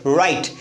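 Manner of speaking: "राइट" with the tongue rolled back at the start; folded-tongue r. Shown as a demonstration. Teacher shows "like this" to students, "राइट" with folded-tongue r. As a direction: show how "राइट" sounds with a folded tongue. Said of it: "अपनी टंग को fold करिए ऐसे".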